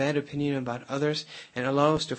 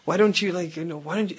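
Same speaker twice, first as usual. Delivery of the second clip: mildly heated husband, pitched up at first; mock scolding with a raised first burst; going off on her; 3 semitones higher than usual. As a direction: imitate an exasperated husband scolding. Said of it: "going off on her and getting mad at her".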